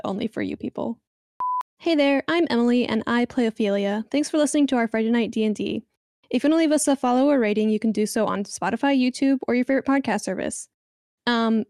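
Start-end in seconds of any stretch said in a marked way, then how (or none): 1.8-10.7 customer service voice. Acted. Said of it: "I put on my customer service voice".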